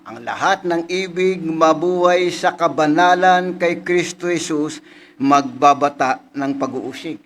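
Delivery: slow, deliberate verse reading; slow preacher's recitation; scripture recitation. Acted. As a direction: lay the verse out word by word.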